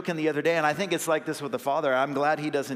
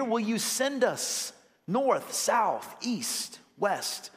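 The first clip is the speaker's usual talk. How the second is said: fervent prayer; 6 semitones higher, slower than usual. Retold or imitated. Voicing a missionary prayer.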